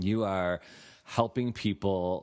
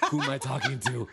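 retold panic; 6 semitones higher than usual.

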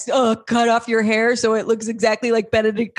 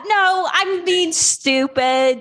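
upset self-reproach; 6 semitones higher, much slower than usual. Acted. Girlfriend acting upset, berating herself.

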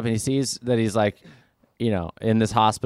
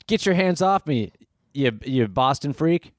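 mock angry; 5 semitones higher than usual. Soldier snaps at nurse.

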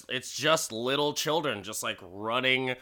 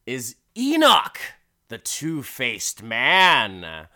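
drawn-out, louder introduction of the star; announcer's billing; 7 dB louder, slower than usual. Acted. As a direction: announce the sideshow's headline act.

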